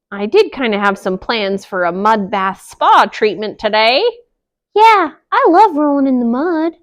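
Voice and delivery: a hint of a lazy piggy; piggy shrugging off work; lightly voiced pig.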